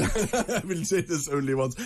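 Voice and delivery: high, slow mock French accent; drawn-out comic French accent, with a laugh. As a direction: echo the catchphrase in hammed-up French. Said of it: "in your French accent".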